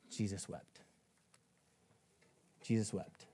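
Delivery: low, soft and grave, left to sink in; solemn hush. Real, not acted. Preacher reads the shortest verse to the church, solemn hush. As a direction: let the short verse fall quietly.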